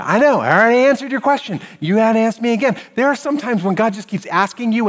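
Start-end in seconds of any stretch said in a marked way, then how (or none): 0.0-2.8 a bit higher, louder, faster complaint; mock indignant. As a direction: retort like an annoyed kid. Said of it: "is that all you got to say to me".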